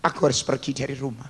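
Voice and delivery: tearful prayer. Retold or imitated. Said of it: "dan saya menangis".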